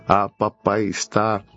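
usual speaking voice

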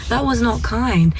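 calm, gentle and slow correction; slow down and correct kindly, without judging; empathy voice. Shown as a demonstration. Mother correcting her son after he hurt his sister, gentle empathy voice. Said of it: "very calm and gentle and use my empathy voice".

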